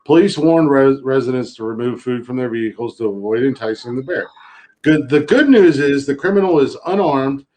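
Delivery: reading the article like a newscaster; deadpan news anchor read. Acted.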